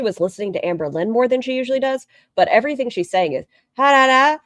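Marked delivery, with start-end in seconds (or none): 3.8-4.4 high singsong mock Valley Girl; Valley Girl mimicry. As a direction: parody her upward lilt. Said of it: "it's very Valley Girl-esque".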